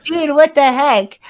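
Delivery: mock outrage at the kid; annoyed quote. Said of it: "I love how triggered you got".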